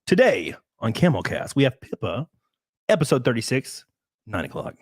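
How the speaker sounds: lightly hissed radio host intro; snake voice. Shown as a demonstration. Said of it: "That was just snake voice".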